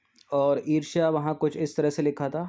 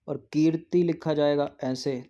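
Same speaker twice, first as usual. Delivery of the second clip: whispered aside while writing. Real, not acted. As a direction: breathe it out under the breath. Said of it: "unvoiced aside while writing".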